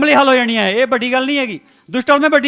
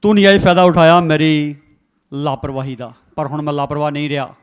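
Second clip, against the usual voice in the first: bold declaration to Satan; 4 semitones lower, 5 dB louder than usual. Shown as a demonstration. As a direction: defy the devil, rising to a triumphant shout. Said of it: "ਸ਼ੈਤਾਨ ਨੂੰ ਕਹੋ".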